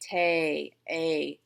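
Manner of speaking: "Ta-" held, then the vowel "a" alone; long A sound. Shown as a demonstration. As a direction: stretch "Ta-", then isolate its long "a". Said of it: "That's a long A".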